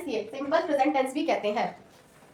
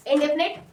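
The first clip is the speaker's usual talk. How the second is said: teacher's model word; model pronunciation. Shown as a demonstration. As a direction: spell out इंडेफिनिट for the class to repeat. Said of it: "मेरे साथ बोलो".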